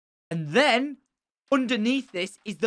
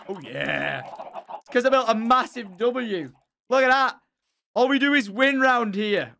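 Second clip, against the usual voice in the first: megalomaniac rant; 7 semitones higher, 6 dB louder than usual. Acted. Gloating over the win.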